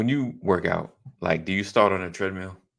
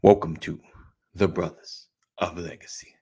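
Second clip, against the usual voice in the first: whispering. Acted. Host whispers the show name.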